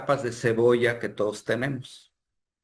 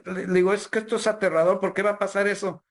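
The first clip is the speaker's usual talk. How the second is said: near tears; 7 semitones higher than usual. Retold or imitated. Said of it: "empecé casi a llorar".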